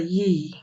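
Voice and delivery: Swedish J sounded like a long ই. Shown as a demonstration. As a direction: say J as a drawn ই, "yi". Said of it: "ইর মতো উচ্চারণ করে". (J-কে টানা ই-র মতো উচ্চারণ)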